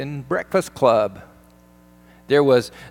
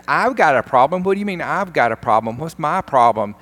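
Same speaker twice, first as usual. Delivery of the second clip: loud, higher, offended comeback; acted-out defensive outburst; indignant retort; 5 semitones higher, 5 dB louder than usual. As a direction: throw the accusation back in disbelief.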